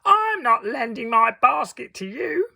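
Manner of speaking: put-on high, loud little girl refusing; snooty girl. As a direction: refuse with a sniff. Red Riding Hood refuses.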